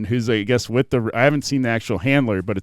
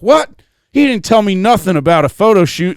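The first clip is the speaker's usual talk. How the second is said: high, louder indignant wife; imitated flustered protest; mock meltdown; 6 semitones higher, 6 dB louder than usual. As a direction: play the wife blindsided and outraged. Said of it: "a total meltdown right beforehand".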